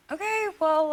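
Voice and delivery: imitating a first try at Brooklyn; Brooklyn accent. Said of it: "how do I do the accent?".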